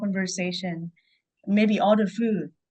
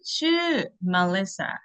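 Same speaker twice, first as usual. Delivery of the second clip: slow demo; slower than usual. Shown as a demonstration. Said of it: "For the female".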